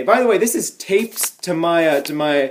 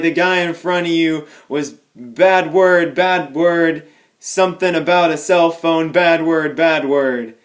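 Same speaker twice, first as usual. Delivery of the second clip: calm. Retold or imitated. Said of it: "Very calmly".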